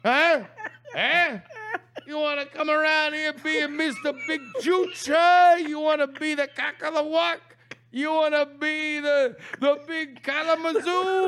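brash, hammed-up street taunts with shouts; Italian tough guy bit. Taunting the coach in a hammed-up Italian tough-guy voice. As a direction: needle him like a mouthy wiseguy. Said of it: "did that whole improv bit".

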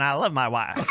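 lightly voiced closeted senator; a hint of a defensive politician; definitely straight senator voice. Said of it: "definitely straight senator voice".

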